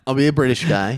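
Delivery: lightly put-on British accent; British guy impression. Shown as a demonstration. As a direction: slip into an amateur British accent. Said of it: "Yeah, I wanna do an accent".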